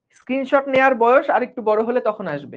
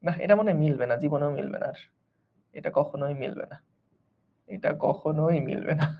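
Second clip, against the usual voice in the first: frustrated muttering; 10 semitones lower, 11 dB quieter than usual. Real, not acted. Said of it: "আমার না খুব খুঁতখুঁতে লাগতেছে".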